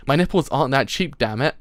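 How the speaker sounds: hammed-up indignant outburst; mock indignation. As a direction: protest loudly, playing affronted. Acted indignant refusal of peddler.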